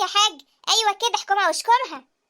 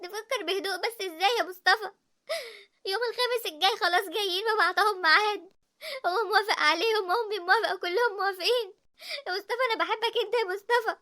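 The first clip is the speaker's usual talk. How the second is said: بكاء; 3 dB quieter than usual. Acted. تبكي لحبيبها.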